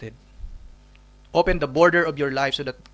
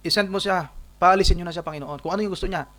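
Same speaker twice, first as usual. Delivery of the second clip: irritated disciples; 3 semitones higher, 3 dB louder than usual. Acted. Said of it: "At sinasabi ho nila".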